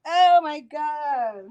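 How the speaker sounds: slow, winded oh my God; catching breath after the dash; breathless. Real, not acted. Streamer back from running to her office, winded. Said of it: "I'm a mess right now".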